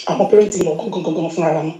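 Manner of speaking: usual speaking voice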